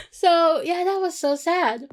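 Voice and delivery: high, loud, still laughing. Real, not acted. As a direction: talk through the tail of a laugh. Laughing after sad retelling.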